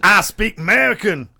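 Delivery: cartoonish American hillbilly voice; hillbilly American accent. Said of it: "Full, full hillbilly".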